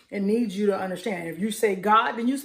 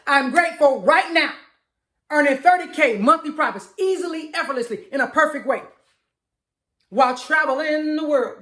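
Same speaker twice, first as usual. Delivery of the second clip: a bit louder and higher, excited; louder affirmation; 4 semitones higher than usual. Shown as a demonstration. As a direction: lift it up like you really mean it. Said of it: "but I'ma say it louder".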